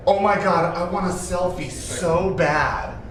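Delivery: loud, high, slowed gushing; over-the-top fan plea, dragged out. Retold or imitated. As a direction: ham up the starstruck fan begging. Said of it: "And then he goes".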